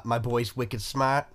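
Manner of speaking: very slow, lightly Boston line; Boston accent quote. Retold or imitated. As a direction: draw it out in a mild Boston accent.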